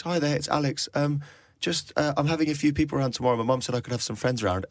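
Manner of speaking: fake kid on phone. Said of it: "not the voice of his mate".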